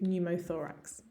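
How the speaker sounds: "pneumothorax" with the P silent, NEW-mo-THOR-ax. Shown as a demonstration. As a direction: say "pneumothorax" as if it began with N. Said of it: "ignore the P and the E".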